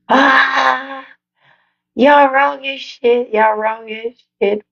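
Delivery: high, slow, drawn-out laughing protest; laughing wail. Real, not acted. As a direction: wail it through helpless laughter. Cracks up at viewers' comments.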